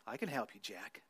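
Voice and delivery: low, very soft voice of God from above. A narrator's reading. God answering Jack on the cliff, low and hushed. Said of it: "I'm the Lord".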